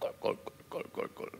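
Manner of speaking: gulping water sound effect with a laugh.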